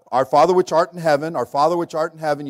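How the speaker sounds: rote repetition. Retold or imitated. Preacher mocks praying the same words over and over, rattled off. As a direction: drone it like empty repetition. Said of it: "quoting that in vain repetitions".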